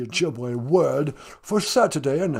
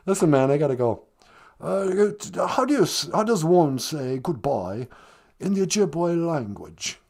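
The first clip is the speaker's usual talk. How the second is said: lightly put-on English accent; a hint of a posh British prince; mild English accent as Prince Harry. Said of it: "Prince Harry".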